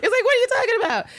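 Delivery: very high, loud, fast, laughing confusion; laughing baffled father. Retold or imitated. Laughing as the father can't understand Anne. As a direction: squeak it through laughter. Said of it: "It's like".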